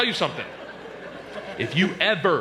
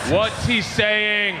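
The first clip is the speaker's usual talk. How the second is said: shouting; 4 semitones higher, 3 dB louder, much slower than usual. Retold or imitated. Retold shout at stranger.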